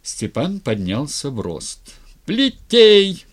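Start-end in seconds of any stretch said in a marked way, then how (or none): 2.2-3.2 high, full-force yelled command; yelling. A narrator's reading. Styr as tsar furiously ordering the lash, yelling. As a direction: bellow the order at the top of your voice. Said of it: "тоже заорал Стырь".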